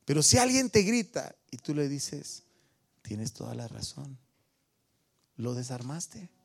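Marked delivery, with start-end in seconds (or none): 3.0-4.2 softer, calming concession; mild, quiet agreement; gentle reply. Acted. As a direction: disarm them with a soft word. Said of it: "la palabra amable o la palabra suave".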